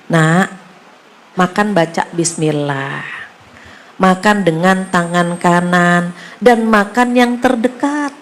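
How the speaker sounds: a hint of tender guidance, slowed down; gentle fatherly advice. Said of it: "Betapa lembutnya beliau ngasih nasihat". (nasihat lembut dan pelan kepada anak kecil)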